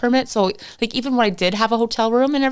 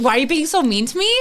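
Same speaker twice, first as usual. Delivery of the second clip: mocking echo; 4 semitones higher, faster than usual. Echoes the officer's complaint in disbelief.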